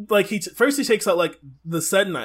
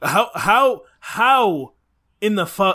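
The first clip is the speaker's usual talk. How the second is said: mock outrage; 2 semitones higher, 5 dB louder, slower than usual. Outraged at missing queue.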